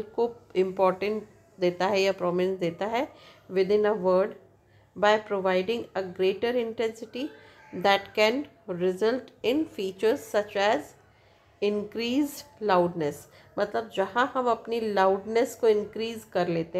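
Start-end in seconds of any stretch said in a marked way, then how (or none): 3.5-13.1 very slow, word-by-word dictation. Shown as a demonstration. Teacher dictating the word accent definition to students, very slow. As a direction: spell the definition out for note-taking.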